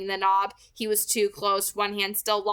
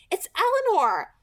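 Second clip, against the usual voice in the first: higher, louder urgent call; urgent cry; 11 semitones higher, 5 dB louder than usual. A narrator's reading. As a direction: blurt the name out in alarm.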